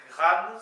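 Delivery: gran said as one syllable, hard g, rolled r, nasal an; pronounced gran. Shown as a demonstration. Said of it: "ça se prononce".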